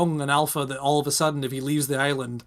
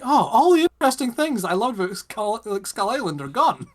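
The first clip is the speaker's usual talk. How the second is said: higher-pitched, dismayed complaint; mock lament; 7 semitones higher than usual. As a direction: bemoan a loss in exaggerated dismay. Dismayed reaction to island's destruction.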